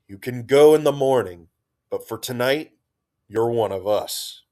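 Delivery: crowing through a mouthful; loud and proud, mouth full of fish. Acted. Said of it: "Trix crowed through a mouthful of fish".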